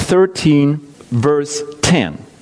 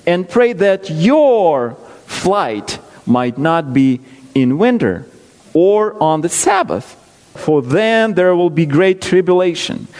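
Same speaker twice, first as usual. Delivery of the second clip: scripture reading. Acted. Preacher reading Matthew to his congregation, measured. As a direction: read the verses steadily, with weight.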